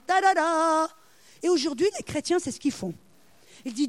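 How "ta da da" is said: drawn-out ta-da flourish; mock fanfare. Preacher capping Gideon's test with a triumphant little fanfare.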